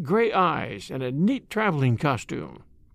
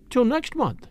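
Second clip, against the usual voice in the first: high, cheerful farewell; 8 semitones higher than usual. A narrator's reading. Daughter composed again, parting from her father cheerfully. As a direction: cover the upset with cheer. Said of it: "she said cheerfully".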